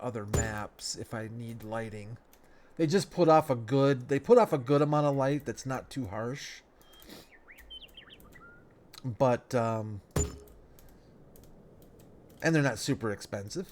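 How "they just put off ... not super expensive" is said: stuffed up nose. Real, not acted. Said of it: "sorry if I sound stuffed up".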